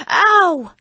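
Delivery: high, loud stage yelp; yelp of pain. Acted. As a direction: cry out as the paddle lands. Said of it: "yelled Jim".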